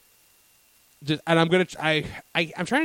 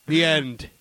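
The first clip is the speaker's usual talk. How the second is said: Monty the Moose; 3 dB louder than usual. Acted. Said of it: "Monty the Moose up there talking about it".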